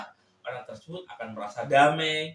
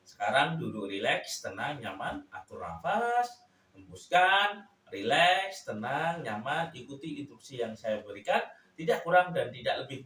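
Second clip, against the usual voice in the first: hypnotic induction intonation; 2 semitones higher than usual. Shown as a demonstration. Hypnosis teacher demonstrating an induction to a subject, patterned hypnotic intonation. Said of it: "Misal seperti ini intonasinya".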